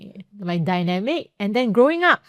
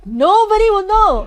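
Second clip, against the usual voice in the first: sly high aside; 7 dB louder, slower than usual. Real, not acted.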